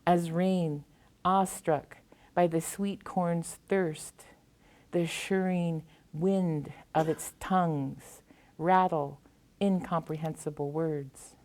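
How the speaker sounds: measured recital with deliberate pauses between phrases; solemn, spaced-out poetry recitation; poem reading. Acted. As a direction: read each line out formally, letting it land. Reads own poem aloud.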